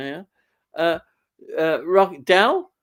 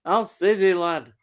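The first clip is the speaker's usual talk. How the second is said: broad Yorkshire say it; flat northern vowels, Yorkshire style; Yorkshire accent. Shown as a demonstration. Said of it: "And a re good Yorkshire accent".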